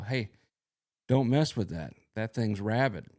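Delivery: lightly acted warning shout; mild retold yell. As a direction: imitate a friend calling out a warning. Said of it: "He starts yelling at these people".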